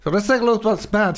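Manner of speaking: speaking with a numb jaw after the dentist; numb mouth. Real, not acted. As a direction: talk as if half your mouth is numb. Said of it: "if I sound a little bit differently than normally".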